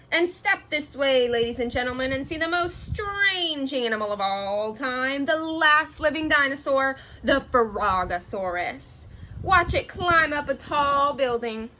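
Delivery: lively carnival barker call; a light carnival barker voice; showman announcer. Acted. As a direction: sell it like a ringmaster to the crowd. Ringmaster pitch at carnival.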